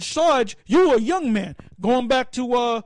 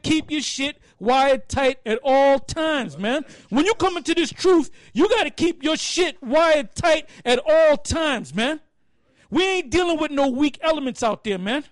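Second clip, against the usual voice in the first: drawn-out stern order; a milder sergeant voice, sermon-like; slow stern sergeant. Retold or imitated. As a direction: lay down the rule slowly. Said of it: "He said".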